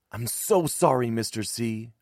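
high-pitched, distressed apology; upset, pleading burst; sputtering apology. A narrator's reading. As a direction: blurt out your guilt. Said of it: "I sputtered".

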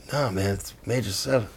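very soft, understated insistence; deadpan it quietly, giving nothing away; straight-faced deadpan. Retold or imitated. Bluesman keeping up prank on bandmates, deadpan. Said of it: "keeping a total straight face".

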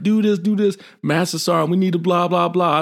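high, rapid barked commands; calling out orders. Retold or imitated. Staff sergeant commanding the team in the drill, high and urgent. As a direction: rattle off orders in the fight.

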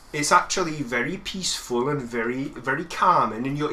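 soothing Geordie accent demo. Shown as a demonstration. Guest showing how calming Geordie sounds, Geordie accent. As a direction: reassure them in an easy Geordie accent. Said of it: "In the Geordie accent".

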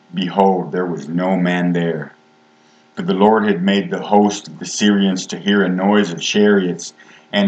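reading King James verses in a steady preaching voice; measured reading of scripture to the congregation. Acted. Reads scripture aloud.

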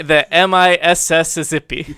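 The M I S S Mississippi spelled letter by letter. Shown as a demonstration. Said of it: "what did you say?".

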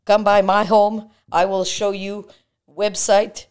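put-on high loud Russian salesman accent; hammy Russian realtor pitch.

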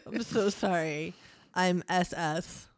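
put-on light Canadian accent, drawn-out sorry; mock Canadian accent. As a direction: apologize like a playful Canadian. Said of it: "I'm trying to do Canadian".

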